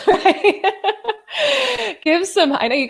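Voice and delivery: high laughing "right?"; real burst of delighted laughter. Real, not acted. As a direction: laugh it out in disbelief. Laughs at amazing comment.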